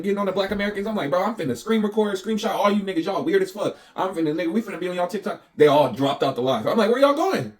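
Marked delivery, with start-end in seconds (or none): 1.1-5.4 retold threat in a raised pitch; mildly heated mock threat; re-enacted rant. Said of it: "as soon as I start ranting". 6.9-7.5 high, loud retold shout after them; incredulous high-pitched holler, re-enacted; mock calling-out. Calls after people leaving the live.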